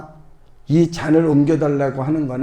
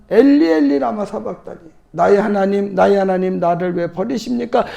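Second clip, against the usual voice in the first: a preacher voicing Jesus crying out on the cross; anguished cry. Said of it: "이렇게 소리를 질렀다고".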